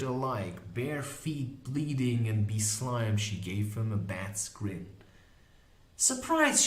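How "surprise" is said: high-pitched teasing woman's voice; mocking Molly Grew. Molly catching the magician leaving early, high and mocking. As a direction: tease the runaway in a much higher voice.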